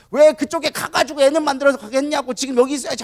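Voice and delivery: high-pitched mock scolding; acted angry nagging. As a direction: play a wife badgering her husband. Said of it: "야곱한테 화를 내는 거죠". (높은 목소리로 화내며 볶아대는 흉내)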